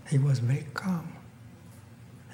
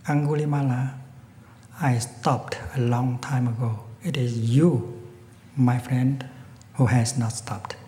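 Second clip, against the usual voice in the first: peaceful voice. Acted. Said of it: "with a very peaceful voice".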